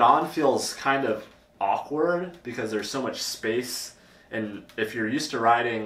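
speaking inside full-face helmet; slightly muffled by chin guard; through a helmet chin bar. Real, not acted. Seen 2: Full-face helmet with chin bar over mouth throughout labelled words.

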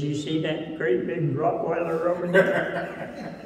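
chuckling, slowed down as the joke lands; can barely hold back a laugh while delivering the punchline; laughing through the punchline. Real, not acted. Pastor delivering the parrot's joke punchline to the kids, laughing.

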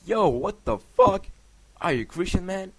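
shrill it up, shocked she's Christian; mock girlfriend. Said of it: "she was like".

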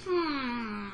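long, falling thoughtful hum; pondering hmm. A narrator's reading. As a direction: hum it slowly to yourself. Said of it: "the fox said to himself".

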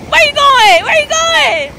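high-pitched teasing call after the wave; high amused calling. Real, not acted. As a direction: call after her laughing. Child swept by wave.

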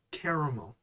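caramel in three syllables, CARE-uh-mul; careful pronunciation. Shown as a demonstration. Correcting their own habit, caramel as CARE-uh-mul. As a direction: say "caramel" with the middle syllable kept. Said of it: "but it's pronounced".

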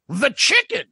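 imitating the guy. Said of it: "the guy goes".

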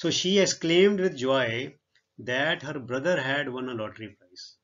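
reading the English sentence out word by word, very slowly; slow dictation reading. Shown as a demonstration. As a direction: spell it out slowly for the class. (ਬਹੁਤ ਹੌਲੀ ਹੌਲੀ ਪੜ੍ਹਾਉਣ ਵਾਲਾ ਲਹਿਜਾ)

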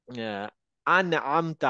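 slow আন আমতা with throaty ain. Shown as a demonstration. Teacher modelling ain in a Quran word. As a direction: stretch আন from mid throat. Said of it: "আইনের উচ্চারণটা একটু কষ্ট করে আসবে".

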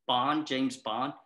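incredulous Bond quote. Retold or imitated. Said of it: "And I'd be like".

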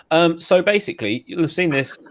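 talking through a mouthful of popcorn; chewing popcorn while speaking; munching popcorn. Real, not acted. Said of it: "I'm eating popcorn right now".

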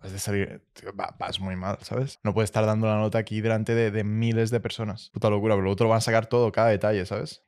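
soft, urgent aside to a struggling friend; hushed friendly warning. Retold or imitated. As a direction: pull him aside and talk low. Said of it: "le digo".

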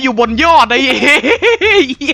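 laughing. Real, not acted. Laughing at friend on rooftop.

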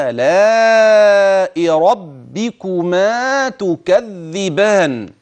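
slow measured tajweed recitation of فيهما من كل فاكهة زوجان; Quran recitation. Shown as a demonstration. Teacher reciting the verse aloud for students, slow and chanted. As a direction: recite the verse slowly, every rule given its length. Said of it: "إذا نطق الآية عمليا".

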